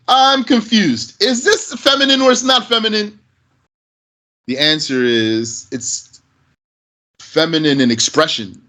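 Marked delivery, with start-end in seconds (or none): 0.1-3.2 mock puzzled student, voice pitched higher; confused student. Teacher imitating a puzzled student, pitched up and questioning. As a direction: play a lightly voiced confused learner asking. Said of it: "someone might say".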